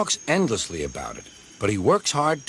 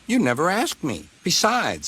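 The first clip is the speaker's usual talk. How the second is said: teasing engine voice; 7 semitones higher than usual. Acted. Duck teasing.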